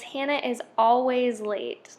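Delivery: "always" stressed and drawn out; slow down and lean on "always"; slow example read, weight on "always". Shown as a demonstration. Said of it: "always is written in italics, this just shows emphasis".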